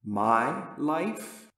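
doubtful question rising at the end; hesitant inner doubt; quiet objection. A narrator's reading. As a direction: question your own words, lifting the end. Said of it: "But a quiet, simple objection".

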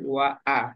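ওয়া আ in two careful pieces; unhurried separate hamza. Shown as a demonstration. Teacher urging a student to go gently, careful syllables. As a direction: let আ start cleanly after ওয়া. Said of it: "আস্তে আস্তে বলেন".

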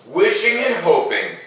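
put-on gentle read-aloud to children; storybook narration. A narrator's reading. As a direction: tell it like a bedtime story. Reads picture book aloud.

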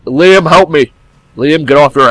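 loud, high plea to Liam; calling for help. Real, not acted. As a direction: yell for your friend to save you. Calling dead teammate for help.

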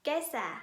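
kesä said slowly, clear ä like Thai แอ; Finnish kesä. Shown as a demonstration. Teacher models kesä for students to repeat, clear Finnish ä. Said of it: "ออกเสียงพร้อมๆกันนะคะ".

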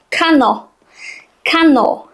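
ordinary talk

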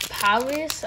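a quick mock French accent on "Paris", said "pa-REE" with the s dropped; a light, playful hint of a French accent on "Paris". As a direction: toss off "Paris" the French way, as a joke. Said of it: "a French accent".

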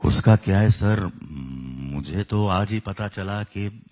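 timid, apologetic everyman; Amol Palekar impression. Shown as a demonstration. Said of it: "best example is Amol Palekar".

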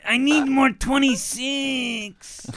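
slow, drawn-out begging in a mock Hispanic accent. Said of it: "Why are you doing that Hispanic accent?".

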